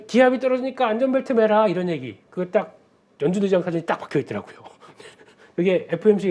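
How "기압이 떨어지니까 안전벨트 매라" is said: captain announcement. Retold or imitated. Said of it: "기장이 방송하는 거".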